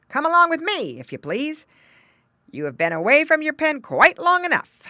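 high, loud dog-character voice; talking dog. A narrator's reading. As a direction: speak as a bossy but polite farm dog. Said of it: "and that meant".

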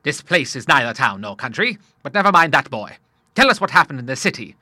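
put-on a touch of brisk, hearty old seaman; hearty old Admiral. Admiral asking his son for news from the city, hearty.

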